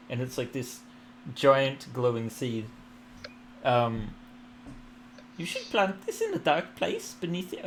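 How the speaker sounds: bestow the gift graciously; warm serene goddess voice. Acted. Goddess speech.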